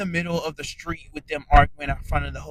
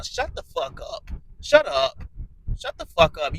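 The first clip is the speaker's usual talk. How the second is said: angry shout. Real, not acted. Viewer yelling at Rolly on TV to shut up. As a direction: snap at the screen to shut her up. Yelling at cast member on screen.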